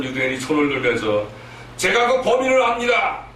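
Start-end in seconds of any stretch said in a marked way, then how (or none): 1.8-3.2 high-pitched declaration, acted out; lightly acted prisoner calling out from the back; raised-pitch voice of someone coming forward; prisoner speaking up.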